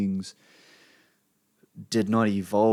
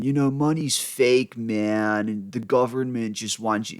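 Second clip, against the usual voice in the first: stoner voice; 3 dB louder than usual. Retold or imitated. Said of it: "I sound like some fucking stoner".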